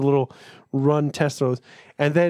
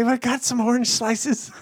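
printer voice; 8 semitones higher than usual. Pretend.

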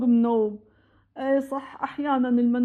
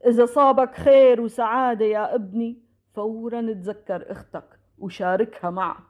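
low, measured retelling of a father's counsel; lightly voiced solemn father; father's parting advice; 3 semitones lower than usual. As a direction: recall his words gravely, pitched lower. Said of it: "وقتها قالنا".

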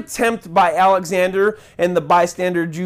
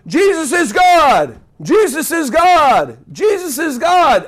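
higher, louder, slow repeated yell; 7 semitones higher, 3 dB louder, slower than usual. Pretend. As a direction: shout it at the top of your lungs. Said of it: "I just yelled at the top of my lungs".

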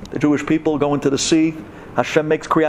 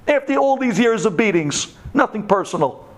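mock sweet Egyptian coaxing; 5 semitones higher than usual. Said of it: "They were telling us".

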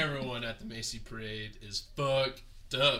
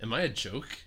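upset rant; 3 semitones higher than usual. Retold or imitated. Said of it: "He is so upset".

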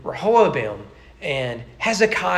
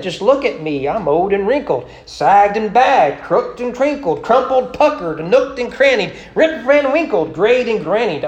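Naomi lamenting; 3 semitones higher, 6 dB louder than usual. Acted. Naomi bemoaning her age to her daughters-in-law, hammed-up. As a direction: pile up the complaints like a comic old widow. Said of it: "Naomi said".

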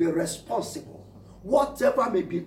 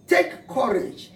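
commanding call; 5 semitones higher, slower than usual. Acted. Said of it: "Jesus immediately said to them".

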